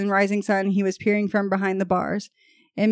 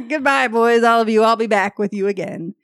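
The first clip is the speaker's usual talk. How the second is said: firm farewell, louder at first; 4 dB louder than usual. A narrator's reading. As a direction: deliver a quoted goodbye firmly. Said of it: "he replied in a firm voice".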